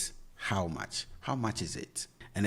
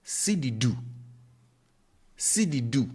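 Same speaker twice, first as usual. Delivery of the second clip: Cedi du raised and a little longer as a question; question tune; 5 semitones higher, 4 dB louder than usual. Shown as a demonstration. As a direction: ask Cedi du on a lifted pitch. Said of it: "Kwame turns this into a yes or no question".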